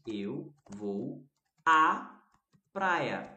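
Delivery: pause, then hit "à" hard; stress on à. Shown as a demonstration. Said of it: "Esse a é craseado".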